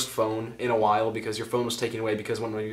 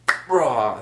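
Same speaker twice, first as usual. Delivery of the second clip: dog impression; 4 dB louder than usual. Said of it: "That was my dog impression".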